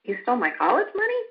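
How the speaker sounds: quick, puzzled rising question; confused question. Shown as a demonstration. Parent demonstrating a child's confused question, puzzled rise. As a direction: sound baffled, not accusing. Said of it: "Are they saying it with confusion?".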